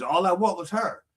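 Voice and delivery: a grieving man's lament; grieving accusation. Acted. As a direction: voice the man's raw grief at God. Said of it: "he's blaming God for the loss".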